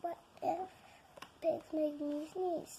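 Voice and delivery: quiet horrified question; hushed dread. Acted. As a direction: breathe the fear softly. Fearful realization.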